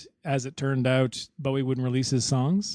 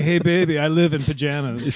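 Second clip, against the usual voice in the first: casual laid-back New York lounge lizard; laid-back come-on line; plain. Retold or imitated. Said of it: "He's like".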